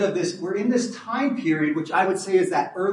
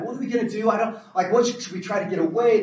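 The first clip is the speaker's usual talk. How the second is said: mock panic; 5 semitones higher, faster than usual. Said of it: "They're totally freaking out".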